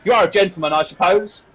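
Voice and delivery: put-on put-upon serving girl's grudging question; sarcastic barmaid. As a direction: needle the guest about manners. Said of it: "She was, uh".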